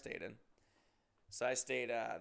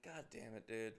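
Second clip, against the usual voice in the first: muttered dismay; 2 semitones lower, 9 dB quieter than usual. Retold or imitated. Cornered drinker to himself, muttered dismay. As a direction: quietly imitate reluctant annoyance. Dreading the stranger's question.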